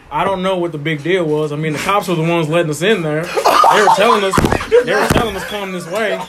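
mock country self-defence; country accent. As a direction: plead innocence in a put-on country accent. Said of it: "I want Troy to have country".

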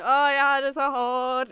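slow, drawn-out stage lament; hammed-up woe, held long; mock stage actor. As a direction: parody an actor suffering on stage. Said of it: "de står op der og sådan laver et eller andet".

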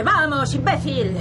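yelling at the slow driver ahead; loud, high furious bark; angry shout. Acted. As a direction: road rage yell. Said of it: "¡Cálmate!".

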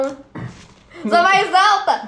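drawn-out triumphant laughing boast; gloat, stretching every word. Real, not acted. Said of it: "Setenta e um".

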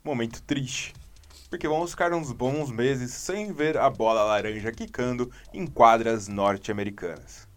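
radio announcer delivery. Acted. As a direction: announce it like a sports broadcaster. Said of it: "você tá um baita de um locutor hoje".

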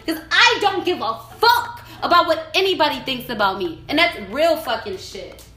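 real fed-up, defiant rant; venting. Real, not acted. Podcaster venting that they will post what they want, angry. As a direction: vent hard, punching the swear words. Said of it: "told you I had a vent".

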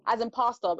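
English pronunciation of pasta, "pasta" like pastor; English accent. Shown as a demonstration. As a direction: say "pasta" with a British vowel. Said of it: "because of the way I'm ... very English".

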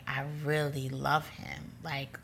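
slow, mildly tearful imitation; retold tearful confession. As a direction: drag the words out as if tearing up. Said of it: "and I'm crying".

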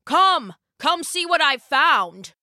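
high, slow, excited call; stretched-out call of discovery. Acted. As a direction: beckon someone over to see a find. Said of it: "he called out".

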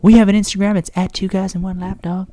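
hammed-up radio plug turning cartoonish; Eric Cartman-like. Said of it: "sound like Eric Cartman".

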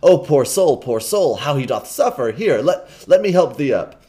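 loud, fussing kind stranger; pitying gentleman. Acted. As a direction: fret over the poor soul.

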